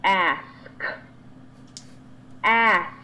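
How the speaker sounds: ask, clearly ending on S K; ask, S sound then K, spelled out in the voice; correct ask. Shown as a demonstration. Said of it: "It is pronounced".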